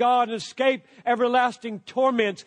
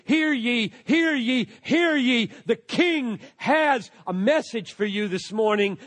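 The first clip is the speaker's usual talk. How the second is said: town crier. Shown as a demonstration. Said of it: "This is announcing".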